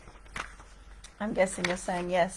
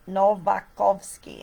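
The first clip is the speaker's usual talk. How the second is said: Novakovsky in a light Polish accent, slow and careful; a touch of Polish accent on Novakovsky; 5 dB louder, slower than usual. Shown as a demonstration. Vlogger names her collaborator in mock Polish accent. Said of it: "in my best Polish accent".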